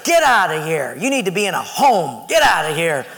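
mad, punchy dismissal; retold anger. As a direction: order the roommate out, acting fed up. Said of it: "I was so mad at him".

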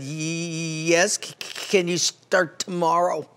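a hint of a nervous old man, stammering on the c; stuttering old man. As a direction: let the old shop owner stammer nervously. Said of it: "kinda stuttering".

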